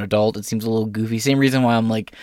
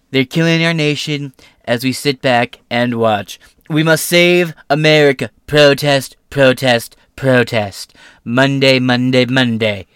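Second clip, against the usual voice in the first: loud, raised rally shout; mock roar; 4 semitones higher, 7 dB louder than usual. Host reading Trump's roaring follow-up message, hammed-up shout. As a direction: bellow it like a campaign chant. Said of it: "He roared in his follow-up message".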